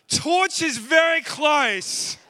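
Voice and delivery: slow, loud call to the whole room. Real, not acted. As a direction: drag it out and call it loud across the hall. Kids' game, calling out loudly.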